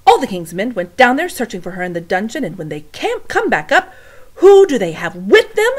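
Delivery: loud, high indignant rant; angry rant. Acted. Louise ranting to the cook, loud and high. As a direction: build to a loud, high outburst.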